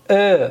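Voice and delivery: "ا" said with the jaw pushed forward, lips stretched; stretched-lip vowel on "ا", between e and o. Shown as a demonstration. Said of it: "فک میاد جلو".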